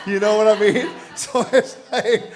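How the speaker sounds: laughing through the words; chuckling, amused aside. Real, not acted. Laughs at the preaching excuse.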